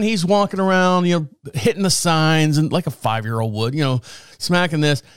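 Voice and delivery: normal talking voice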